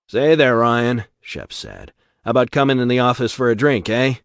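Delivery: slick invitation. Acted. Shep invites Ryan.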